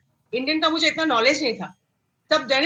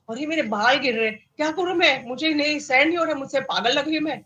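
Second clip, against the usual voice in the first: retold panic; 3 semitones higher than usual. Patient phoning her friend as her hair falls out, mildly panicked. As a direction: relive the panicky complaint, pitch climbing.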